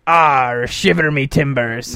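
slow, low relaxed pirate drawl; laid-back pirate. Shown as a demonstration. Host shows how pirates sound laid back. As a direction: say it easy, no excitement. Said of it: "the pirates are more, like, laid back".

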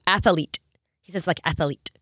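"athlete" as ath-uh-leet; three-beat athlete, ath-e-leet; extra vowel. Retold or imitated. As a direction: slip a small vowel before the L in athlete. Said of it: "extra E in there before the L".

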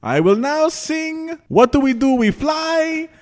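Vegas lounge announcer. Pretend. Mock Vegas lounge act announcement.

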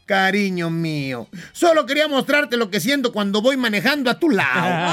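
wife sweetly mocking her husband's backseat driving; sarcastic sweetness. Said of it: "le sonríe sarcásticamente y le dice".

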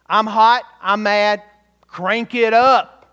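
loud, furious king demanding heat. Retold or imitated. Angry king orders the furnace cranked up, in a loud furious voice. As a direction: bark it like a raging king ordering the furnace hotter. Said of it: "the language matches his fury".

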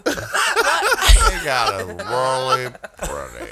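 hammed-up adoring thank-you; mock gushing fan. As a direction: gush at him like a starstruck fan.

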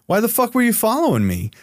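retold angry shout. Yelling back at the FBI agents, retold indignant shout. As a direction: fire it back at them, outraged. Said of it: "we get into this shouting match".

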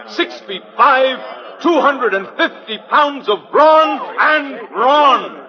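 grand sideshow barker spiel; booming carnival pitch to the crowd; florid victorian lecturer. Acted. Street pitchman hawking to a crowd.

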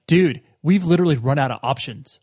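mock-stern parent; lightly acted parent laying down the law; parent putting foot down. Host plays parents out of options, mock-firm. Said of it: "ultimately putting their foot down".

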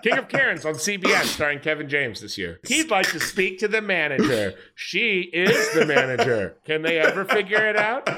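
movie trailer narrator; trailer voiceover. Acted. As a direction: sell it like a sitcom promo. Mock TV show trailer.

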